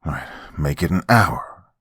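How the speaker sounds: flat stern reply; stern dad. Acted. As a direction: lay down the law calmly. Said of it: "he said sternly".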